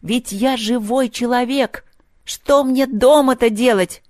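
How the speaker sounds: a touch of an offended grandmother; indignant old woman. A narrator's reading. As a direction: protest like an old woman left behind. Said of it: "сердито проворчала она".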